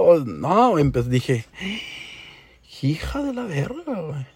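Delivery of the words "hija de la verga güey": slow muttered curse. Retold or imitated. Cursing to himself, stunned.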